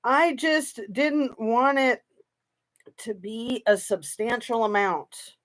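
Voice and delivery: drawn-out mimicry of her words; a hint of imitating her careful tone; slow mocking quote. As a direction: slowly parrot her line, half mocking. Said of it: "what does she say?".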